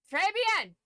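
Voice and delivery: très bien, loud and high, the French way. Shown as a demonstration. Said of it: "it's très bien".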